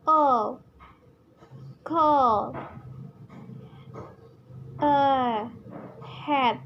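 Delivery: slow, isolated vowels and example words, drawn out; vowel reading demo. Shown as a demonstration. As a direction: model each vowel, then its word, one at a time. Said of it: "How we can to read the vowels".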